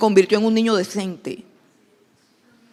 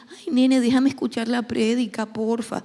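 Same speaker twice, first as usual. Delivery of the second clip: mock pitiful plea; poor-me pleading; 2 semitones higher than usual. Mother asking her child to let her hear the sermon, pitifully pleading. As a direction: plead like a helpless, self-pitying mother. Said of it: "así con carita de pobrecita yo".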